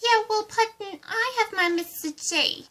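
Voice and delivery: high, boastful villainess retort; defensive, girlish comeback; Harley Quinn. Acted. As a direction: brag about your sweetheart in character. Boasting back in a villain quarrel.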